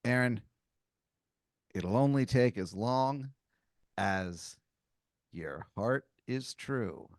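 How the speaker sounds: slow, hushed mystic pronouncement; mystical wizard wisdom. Acted. Wizard answers how long the walk is, slow mystical riddle. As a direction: deliver it like a solemn riddle, drawing it out. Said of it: "he says to you".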